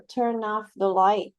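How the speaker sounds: teacher stressing the particle. Shown as a demonstration. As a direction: Turn off the light, OFF stressed. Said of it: "this is a very clear example".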